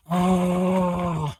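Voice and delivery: drawn-out "oh", faking upset; mock upset groan. Mimicking Superman getting upset.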